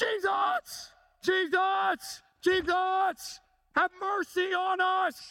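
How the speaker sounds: acted very high, very slow, desperate pleading scream. Explaining a passage, acting out people standing afar off, imitating screaming at top of lungs. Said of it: "They are screaming at the top of their lungs".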